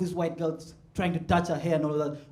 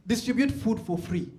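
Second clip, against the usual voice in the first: mock outrage; 4 semitones higher, 8 dB louder than usual. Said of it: "And I was like".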